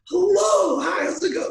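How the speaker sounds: very high, loud mock welcome; hammed-up shrieky greeter; greeting with cracking voice. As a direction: sing out an over-the-top hello, voice cracking. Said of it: "I can't do it now 'cause my voice is cracking".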